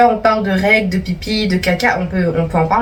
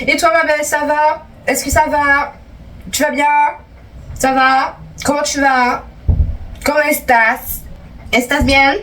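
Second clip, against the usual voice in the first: higher, sing-song sweet greeting; mock sweet greeting; 5 semitones higher than usual. Greeting Daphné back, higher mock-sweet voice. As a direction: coo at her like a bestie.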